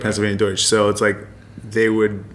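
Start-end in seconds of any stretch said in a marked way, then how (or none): 0.0-0.6 Pennsylvania Deutsch with Deutsch said as doitch; German Deutsch. Shown as a demonstration. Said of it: "Pennsylvania Dutch means Pennsylvania German".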